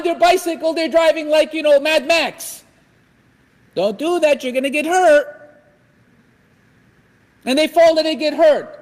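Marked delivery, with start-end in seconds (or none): 3.7-5.3 raised-pitch mock warning; warning parent. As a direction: imitate a parent calling out a caution. Acts parent warning reckless child.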